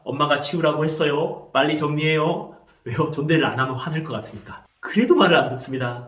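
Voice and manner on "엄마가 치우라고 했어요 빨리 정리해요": imitating a parent being carefully polite; polite restraint. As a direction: ask the child in measured polite speech. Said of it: "이번에는 존대를 씁니다". (애써 존댓말하는 엄마 흉내)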